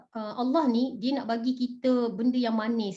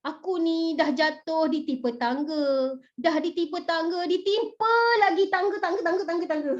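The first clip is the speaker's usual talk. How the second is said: mock lament; 3 semitones higher than usual. Teacher mimics people bemoaning one misfortune after another, mock lament. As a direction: bemoan piled-up bad luck, half-joking. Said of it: "akan cakap macam gini tau".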